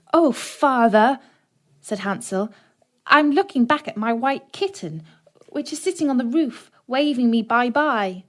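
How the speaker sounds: put-on boy answering father, high childish voice; childlike Hansel. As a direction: sound like an innocent little boy.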